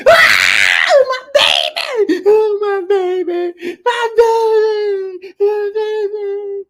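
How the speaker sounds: high, slow, sung wail; keen over her baby like a grieving mother; the mother wailing over her hurt son. Retold or imitated. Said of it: "His mother come up there".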